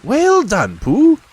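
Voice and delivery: Rabbit praising kindly in a high voice. A narrator's reading. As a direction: pat Pooh on the back with your voice. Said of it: "said Rabbit kindly".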